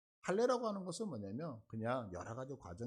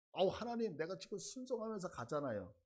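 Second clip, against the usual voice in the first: mock wheedling, pitched up at the start; butter someone up, half in jest; playful flattery; 3 semitones higher than usual. Preacher voices Moses sweet-talking God for a favour, playfully fawning. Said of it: "하나님한테 이렇게 아부도 하고".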